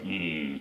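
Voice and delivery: low grumbled "hmm"; low, quiet hum. Retold or imitated. Co-host imitating the wall's face as it appears, low hum. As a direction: hum low and soft under the breath. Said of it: "his face comes out like".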